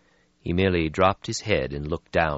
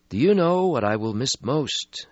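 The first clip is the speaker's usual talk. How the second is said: put-on weary old vampire; 8 semitones higher than usual. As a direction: sigh out an ancient regret. Stretsky voiced in story.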